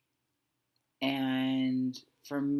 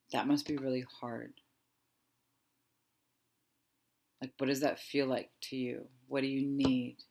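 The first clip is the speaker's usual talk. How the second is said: meet the fear tenderly; gentle empathy. Shown as a demonstration. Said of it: "feel into the difference".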